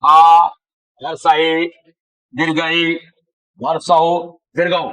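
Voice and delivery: आ called out loud and drawn out; teacher sounding out आ loudly; loud vowel demo. Shown as a demonstration. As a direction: belt out the vowel आ for the class. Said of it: "स्वर one और व्यंजन one को समझना पड़ेगा".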